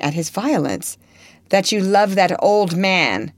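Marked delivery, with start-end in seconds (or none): 1.5-3.3 jealous accusation. Acted.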